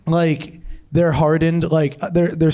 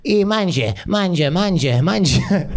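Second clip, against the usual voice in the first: mock Italian grandma urging food; 2 semitones higher than usual. Italian grandma keeps feeding his brother, mock insistent urging. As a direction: coax them to eat in a hammed-up Italian accent. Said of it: "Italian grandmas, they just keep feeding you".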